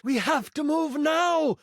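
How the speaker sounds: high, urgent royal command; urgent queen. Acted. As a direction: call it out as a queen rallying her allies. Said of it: "the queen demands".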